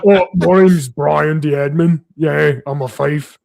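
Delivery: slow, dopey goofball voice; silly idiot character. Retold or imitated. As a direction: play the dim-witted tavern fool slowly. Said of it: "I was just like".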